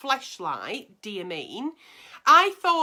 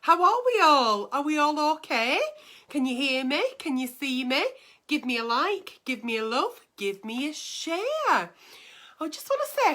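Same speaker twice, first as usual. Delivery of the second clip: campy drag queen; 4 semitones higher than usual. Acted. Drag host Auntie Nelly opening show.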